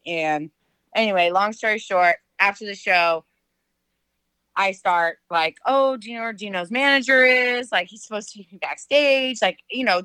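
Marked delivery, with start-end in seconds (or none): 5.6-9.4 slightly higher, lightly voiced eager teen; a hint of a teenager with no clue; clueless sixteen-year-old. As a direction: imitate a naive teenage fan, lightly. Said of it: "total typical sixteen-year-old, like, no clue".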